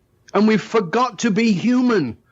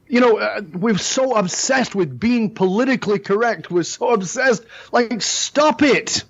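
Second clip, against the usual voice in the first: put-on a raised, lilting Indian accent; 4 semitones higher than usual. Mocking political correctness, talking to the host in an Indian accent. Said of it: "my Indian accent".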